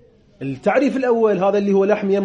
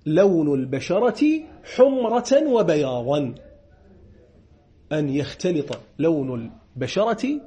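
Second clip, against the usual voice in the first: slow dictation; 4 semitones lower, slower than usual. Shown as a demonstration. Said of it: "dictating the definition slowly".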